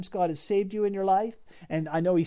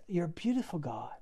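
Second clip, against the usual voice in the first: breathy whisper of worship, much softer; whispered prayer; 8 dB quieter than usual. Acted. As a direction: hush it like a private prayer. Whispered praise in voiced prayer.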